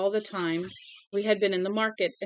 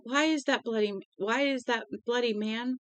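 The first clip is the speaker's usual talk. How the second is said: put-on frightened child; 5 semitones higher than usual. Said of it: "Billy burst into tears".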